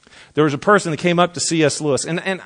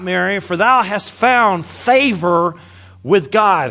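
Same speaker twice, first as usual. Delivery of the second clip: angel's greeting; 4 semitones higher than usual. Acted. Reads the angel's greeting, high.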